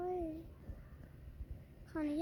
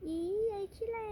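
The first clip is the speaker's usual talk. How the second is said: mocking jeer; 6 semitones higher than usual. Classmate jeering at the ugly girl, mocking. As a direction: spit it out as a taunt.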